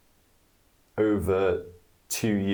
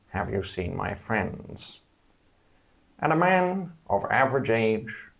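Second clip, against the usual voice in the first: serpent voice. Acted. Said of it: "the serpent voice".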